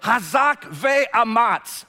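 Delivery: Hazak ve'amatz belted out slow and loud; forceful Hebrew. Shown as a demonstration. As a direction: put grit into Hazak ve'amatz.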